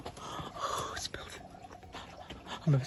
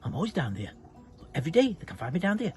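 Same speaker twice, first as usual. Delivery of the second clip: grumbling neighbour; 3 semitones lower, faster than usual. Acted.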